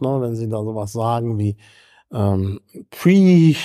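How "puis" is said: puis with the final I breathed out, voice cut off; devoiced French vowel. Shown as a demonstration. Lecturer demonstrates the whispered final I of puis. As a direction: say puis and let the I fade into breath. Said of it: "können Sie das I so verhauchen lassen".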